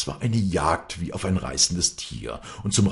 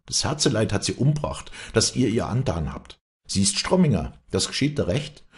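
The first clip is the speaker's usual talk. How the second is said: higher, pressing reproach; bitter accusation; 6 semitones higher, 4 dB louder than usual. A narrator's reading. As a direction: accuse your father to his face. Daughter throws bitter accusation at father.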